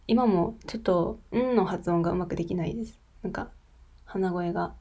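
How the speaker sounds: stuffy nose from a cold; blocked nose, nasal sound. Real, not acted.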